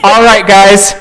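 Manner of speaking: loud, hearty call. Acted. Man climbing out and calling to his friends, loud call. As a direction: project it to the group. Steven calls to group, climbing out.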